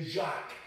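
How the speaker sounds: Jacques with a soft zh start; French Jacques. Shown as a demonstration. Tracing the name into French, Jacques said as zhak. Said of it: "in French, for example".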